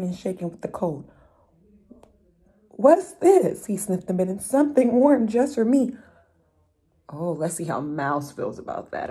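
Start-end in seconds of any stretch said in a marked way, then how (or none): 2.7-3.7 much higher, louder rabbit's question; a bouncy rabbit squeaks in surprise; curious rabbit voice. Acted. Rabbit finds the mitten, asking high and loud. 4.4-6.0 higher and louder, claiming the prize; eager rabbit. Acted.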